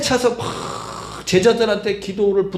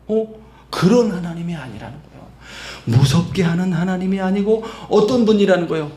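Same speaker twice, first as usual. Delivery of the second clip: ordinary talk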